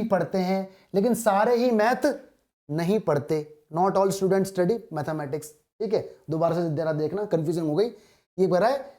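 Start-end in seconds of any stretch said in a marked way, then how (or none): 3.8-5.5 reading each word out very slowly; slow dictation. Shown as a demonstration. Teacher reading the question aloud to students, very slowly. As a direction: spell the question out word by word for the class.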